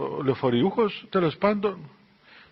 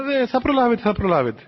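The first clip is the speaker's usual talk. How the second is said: higher pitch, dropping at the end; reassuring elder; 4 semitones higher than usual. Retold or imitated. Elder to the anxious abbess about the bus, reassuring. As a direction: brush off the worry as the elder. Elder waves away her worry.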